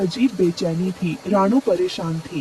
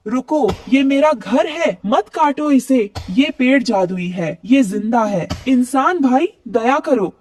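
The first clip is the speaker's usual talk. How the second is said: desperate plea; 4 semitones higher than usual. Acted. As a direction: plead for your home with everything. Rano begs man not to cut.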